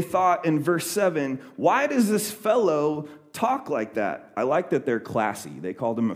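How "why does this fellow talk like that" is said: indignant scribe. Retold or imitated. Teachers' thought quoted.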